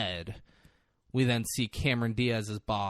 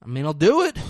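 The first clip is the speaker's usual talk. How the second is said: begrudging; 5 semitones higher, 9 dB louder, faster than usual. Retold or imitated.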